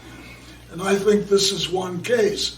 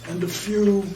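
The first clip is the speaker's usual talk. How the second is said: raspy, strained, worn-out voice; hoarse voice; 4 dB quieter than usual. Real, not acted. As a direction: speak through a hoarse throat. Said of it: "I know I sound like Donald Duck".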